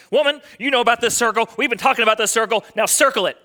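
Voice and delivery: lightly acted husband lecturing his wife; mock pious husband. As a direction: play a husband mildly scolding his wife. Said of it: "as a good God-honoring husband".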